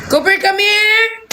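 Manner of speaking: high, slow sing-song call; calling the dog. Real, not acted. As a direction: draw the dog over with a long high call. (malambing na pagtawag sa aso)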